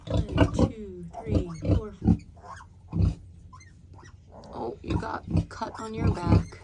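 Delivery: whispered counting of piglets; breathy hush near the pen; wildlife watching whisper. Real, not acted.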